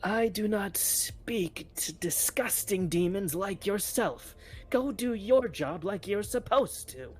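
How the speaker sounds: high, slow witch voice; hag voice. Acted. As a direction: sneer it like an old hag. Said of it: "that's just the best hag voice".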